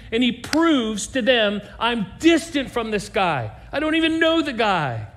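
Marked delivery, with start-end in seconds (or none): 1.8-5.1 frantic denial. Retold or imitated. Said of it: "he just loses his mind".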